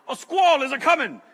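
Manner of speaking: mock-dramatic "A squall is a coming"; funny old sailor voice. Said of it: "what is that voice?".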